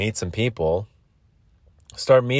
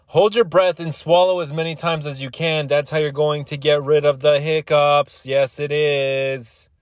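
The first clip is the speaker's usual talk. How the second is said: insistent instruction; 5 semitones higher than usual. Acted. Hammers home his hiccup remedy.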